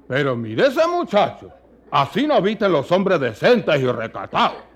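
lightly voiced old countryman, scolding; a mild grumble of an old guajiro; viejo guajiro. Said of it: "Comentando dijo a uno". (un guajiro viejo que regaña, apenas marcado)

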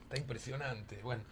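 talking through a mouthful of food; mouth full. Real, not acted. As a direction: speak around a bite, chewing. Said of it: "hablar con la boca llena".

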